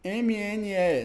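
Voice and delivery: M N E spelled letter by letter, slow; M N E dictated slowly, letter by letter. Shown as a demonstration. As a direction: give M N E slowly, one letter at a time. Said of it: "mnemônico".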